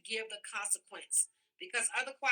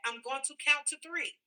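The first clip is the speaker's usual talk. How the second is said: firm parent warning; 3 semitones higher than usual. Shown as a demonstration. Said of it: "enforce the statement you are making".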